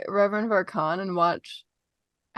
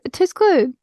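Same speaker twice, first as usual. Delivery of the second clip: high, louder blurt; flustered blurt; 9 semitones higher, 7 dB louder than usual. Acted. Wythe gives up on secrecy with Isadora, flustered blurt. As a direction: drop the whisper and blurt it out. Whisper dropped, blurted out again.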